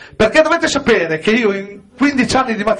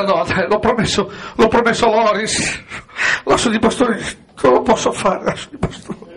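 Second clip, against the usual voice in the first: mock anguish; 2 semitones lower than usual.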